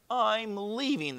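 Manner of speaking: high, slow, singsong exit line; fleeing dragon. Acted. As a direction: announce departure with drawn-out words. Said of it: "the real dragon said".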